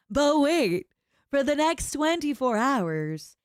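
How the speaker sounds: but wait, pitchman urgency; hard sell ad. Shown as a demonstration. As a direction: sell it like a late-night ad. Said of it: "commercial voice".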